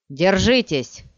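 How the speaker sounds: loud rallying shout. Acted. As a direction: call out to blinded soldiers. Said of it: "крикнул Пол". (громкий крик)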